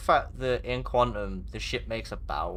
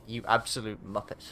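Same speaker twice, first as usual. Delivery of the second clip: casual. Shown as a demonstration. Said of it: "said very casually".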